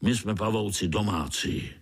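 put-on old spider giving orders; lightly voiced old spider giving a command. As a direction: bark the retreat to his troop.

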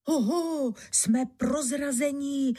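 high alarmed exclamation; poplašené zvolání. A narrator's reading. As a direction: call out in alarm to the gang. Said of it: "zvolal náčelník lupičů". (vysoké poplašené zvolání loupežníka)

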